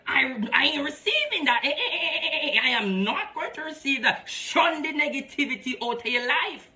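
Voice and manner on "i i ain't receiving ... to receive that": defiant refusal. Retold or imitated. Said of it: "you gonna say to yourself".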